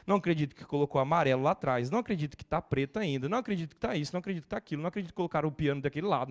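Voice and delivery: fast mock grumbling list; a rapid, fussy griping rant; mock complaining. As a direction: rattle off petty complaints. Mocking a picky churchgoer.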